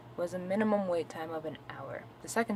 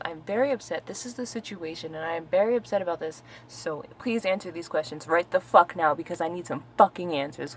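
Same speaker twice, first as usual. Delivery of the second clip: upset and insistent, building a little louder; toned-down replay of yelling at customer service; retold angry yelling; 6 dB louder than usual. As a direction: demand it firmly, punching the swear words. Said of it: "I definitely was yelling at this individual".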